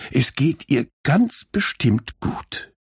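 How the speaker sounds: slow and tender, stressing ganz; gently. Acted. Minna reassures Borke slowly and tenderly. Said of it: "sagte sie sanft".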